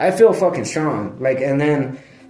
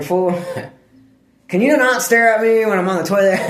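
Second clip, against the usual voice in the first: laughing scold; 6 semitones higher than usual. Retold or imitated. Scolding dog while on toilet.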